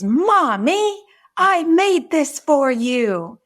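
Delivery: put-on very high, slow child voice; pleading little girl. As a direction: stretch it out, begging to be noticed. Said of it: "she says".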